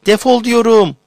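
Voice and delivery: screaming, stamping with rage; furious shout. Acted. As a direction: throw him out at full voice. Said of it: "titreyip tepinerek".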